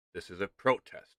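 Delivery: This is a protest with protest leaned on; emphasized protest. Shown as a demonstration. Streamer insisting to viewers that this is a protest. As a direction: land the word protest firmly. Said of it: "I'll emphasize that word".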